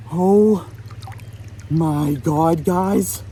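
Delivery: real joyful yelp; excited shout. Real, not acted. Admiring the caught trout.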